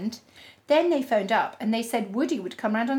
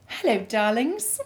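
slow, grand theatrical greeting; campy drag queen. Acted. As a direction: greet the audience like a diva. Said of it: "I love this sense of audience".

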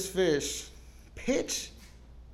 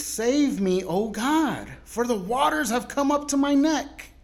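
read prayer; 7 semitones higher, 4 dB louder, slower than usual. Retold or imitated. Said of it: "where the word of God reads".

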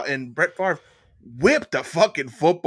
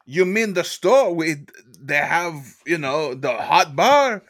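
mock outrage; 4 dB louder, slower than usual. Mock outrage about Whole Foods peas.

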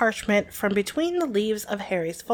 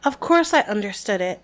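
clenched teeth. Acted. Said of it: "teeth clenched so tightly the words came out a little muffled".

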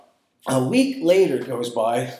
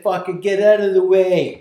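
laughing retold yell; 3 semitones higher, 5 dB louder than usual. Yelling at the doorman, laughing.

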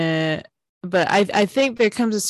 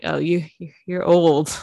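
put-on teasing young voice. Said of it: "The younger ones will always be like".

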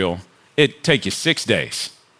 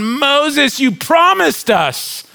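grumbling Israelites; 11 semitones higher than usual. Retold or imitated. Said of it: "They're looking around going".

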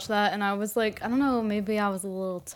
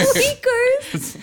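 high squealing laugh on the name; 4 dB louder than usual. Real, not acted. Delighted by cat name.

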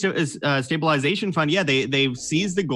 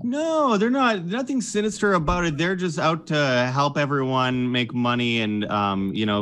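sarcastic. Acted. Sarcastic denial of sinister fund.

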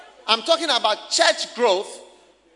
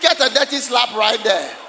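mock scolding; 5 dB louder than usual.

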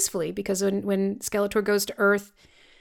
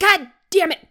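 frustrated curse; 8 semitones higher, 5 dB louder than usual. Retold or imitated. Voicing Skeletor's frustration.

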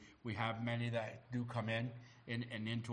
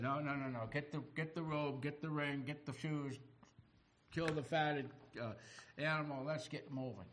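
higher-pitched, urgent string of orders; eager father; 4 semitones higher than usual. Acted. Father orders a party for his returning son, eagerly. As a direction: hurry the household into action, pitched up.

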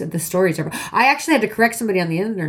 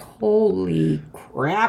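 mock stunned; much slower than usual. Mom's stunned reaction retold.

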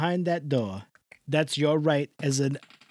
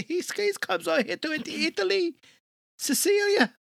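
crowing the place name proudly; excited exclamation; 11 semitones higher than usual. Acted. Host retelling what he said to Mike White, exclaiming in a mock Italian shout. Quoting himself, exclaiming Sicilia.

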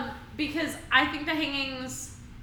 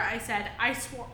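ordinary talk

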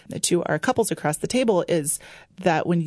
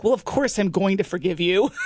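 laughing reply; 2 semitones higher than usual. Retold or imitated. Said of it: "I'm like".

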